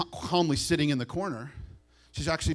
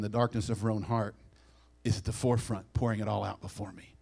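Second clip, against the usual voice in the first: earnest rebuke; 3 semitones lower than usual. Retold or imitated. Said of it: "He tells them".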